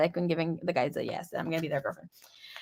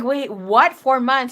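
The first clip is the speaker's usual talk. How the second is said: shocked disbelief; 4 semitones higher, 5 dB louder, slower than usual. Retold or imitated. Reacting to pregnancy news.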